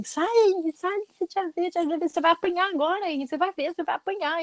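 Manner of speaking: put-on high, taunting child voice; gloating little boy. Little boy pulling his brother away, gloating that he'll get smacked. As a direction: imitate a small kid celebrating his brother's trouble. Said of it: "comemorando que o irmão ia apanhar".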